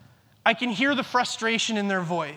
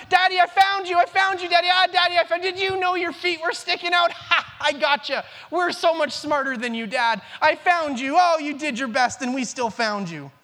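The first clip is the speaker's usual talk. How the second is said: put-on higher, louder gleeful child voice; excited kids; 5 semitones higher, 3 dB louder than usual. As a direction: crow like a kid who just won hide and seek. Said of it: "And they're so excited".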